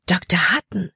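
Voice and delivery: a small shocked cry of the name. Acted. Libby recognising the man she trusted, shocked. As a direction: gasp out the name in dismay. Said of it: "Ein leiser Schrei entfuhr Libby".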